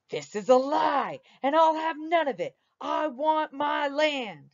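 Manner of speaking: a cornered thief blustering, slowing at the end; angry outburst. Acted. Jimbo enraged at the clerk.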